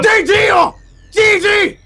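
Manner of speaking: very high faux-German exclamation; mock German commentator. Commentator conceding for his interpreter, high mock-German voice. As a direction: call the game over in high pretend German. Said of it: "I haven't spoken German".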